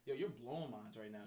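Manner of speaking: low, quiet, laid-back imitation; chill and calm. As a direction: play the unbothered boyfriend, keeping it down. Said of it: "he's just mad chill and calm".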